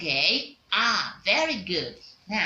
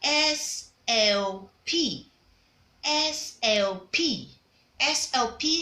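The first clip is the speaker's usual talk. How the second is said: slow letter spelling; 2 semitones higher, slower than usual. Shown as a demonstration. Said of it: "such as if I have a word like".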